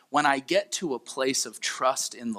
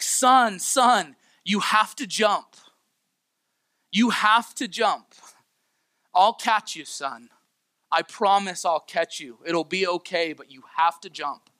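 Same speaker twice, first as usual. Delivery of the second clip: higher, louder desperate call; retold father's yell; 4 semitones higher, 4 dB louder than usual. Father shouts up to his son at the window, loud and pleading. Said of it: "he's yelling to his son".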